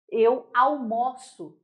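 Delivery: almoço with an open ó, slowly; almoço with an open ó, verb sense. Shown as a demonstration.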